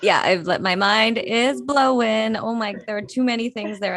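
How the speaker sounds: amazed. Real, not acted. Awed reaction to poem.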